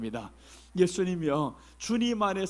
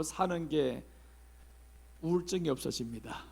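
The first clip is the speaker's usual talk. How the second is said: usual speaking voice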